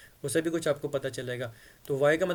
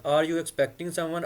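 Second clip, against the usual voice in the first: slow model reading; much slower than usual. Shown as a demonstration. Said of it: "आपने किसी को कहना हो".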